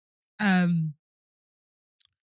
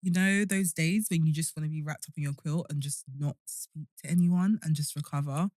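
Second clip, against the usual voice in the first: hungover; 4 dB quieter than usual. Real, not acted. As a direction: drag through it, hungover. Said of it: "I am hungover".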